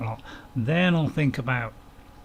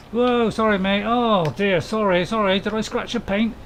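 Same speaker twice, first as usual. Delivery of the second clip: raised, quick startled sorry; startled apology; 4 semitones higher, 3 dB louder than usual. Real, not acted. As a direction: caught off guard, apologizing fast. Bumps a car in game.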